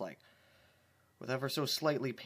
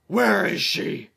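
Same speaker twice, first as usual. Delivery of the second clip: high, loud and slow, demanding; Twilight's voice; 8 semitones higher, 14 dB louder, slower than usual. Acted. Twilight demanding where she is, high and loud. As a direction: call out slowly, high and strong. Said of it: "Twilight said".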